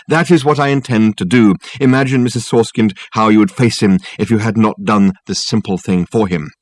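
pompous, persuasive detective talking up his case; lofty and smooth, selling it hard; Dirk's grand phone voice. Acted.

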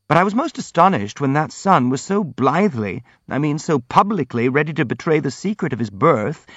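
lively, protesting prince character; earnest, indignant prince. Acted. Prince answers his accusers about Pavlishev, earnest and indignant.

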